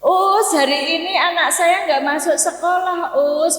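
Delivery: parent making excuses. Retold or imitated. Parent telling teacher child absent.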